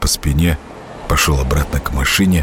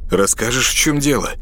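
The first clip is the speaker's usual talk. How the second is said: лепет; 5 semitones higher than usual. Acted. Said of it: "лепетал Саша".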